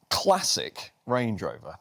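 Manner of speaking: slow, leaning weight on "classic"; emphasis on classic. Shown as a demonstration. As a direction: stretch out "classic" and press it down. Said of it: "I put emphasis on the word classic".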